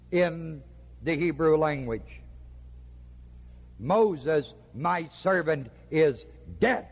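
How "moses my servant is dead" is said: deliberate pauses, landing hard on "dead"; stress on dead. Shown as a demonstration. Preacher shows congregation the verse's emphasis, stress on "dead". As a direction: set each phrase apart, then punch "dead.". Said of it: "The emphasis is on dead".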